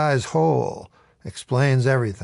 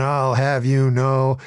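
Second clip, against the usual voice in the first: pompous protest; slower than usual. Retold or imitated. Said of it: "starts in with his".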